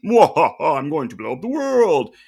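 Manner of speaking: hammy evil villain cackle, slow; cackle, then threaten slowly like a cartoon villain; mad scientist. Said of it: "the guy sitting in the chair with the beard and his computer, it was like".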